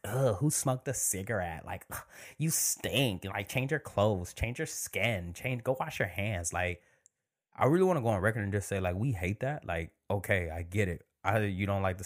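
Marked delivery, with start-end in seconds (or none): 0.1-6.5 mock disgust. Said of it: "everybody's like".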